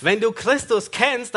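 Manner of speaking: ordinary talk, nothing marked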